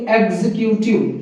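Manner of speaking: एग्जीक्यूटिव as 'eg-zi-kyoo-tiv'; correct pronunciation. Shown as a demonstration. Teacher gives students the right form, carefully pronounced. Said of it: "लेकिन इसको बोलेंगे".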